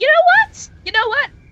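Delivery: very high, loud, blurted exasperated outburst. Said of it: "And she's like".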